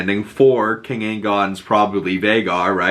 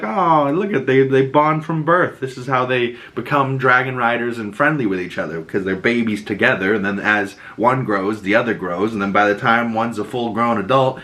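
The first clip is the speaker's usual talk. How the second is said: excited realization. Retold or imitated. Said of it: "I was like".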